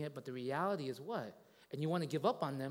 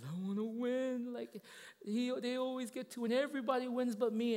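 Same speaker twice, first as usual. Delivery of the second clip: higher-pitched childish wail, hammed up; imitated bawling kid; 8 semitones higher than usual. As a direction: whine it like a bawling little boy, imitated. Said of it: "He started bawling. And he says".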